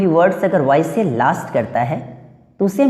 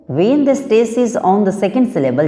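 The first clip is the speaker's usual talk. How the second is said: slow, careful dictation of the rule; reading the rule aloud; much slower than usual. Shown as a demonstration. Teacher dictating the rule to students, slowly and deliberately. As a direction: spell out the rule word by word for the class.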